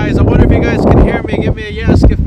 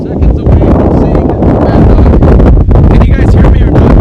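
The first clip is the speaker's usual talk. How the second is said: shouting over wind; 4 semitones higher, 8 dB louder than usual. Real, not acted.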